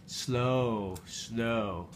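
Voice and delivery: long, soft, falling vowel; slow, softening reminder; drawn-out coaxing. Real, not acted. Parent coaxing child to eat slowly.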